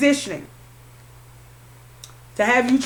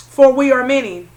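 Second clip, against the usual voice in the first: louder, ominous quoted pronouncement; a hint of Lucifer declaring his legion; 6 dB louder than usual. Reader voicing Lucifer's words to viewer, louder and ominous. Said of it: "what did Lucifer say?".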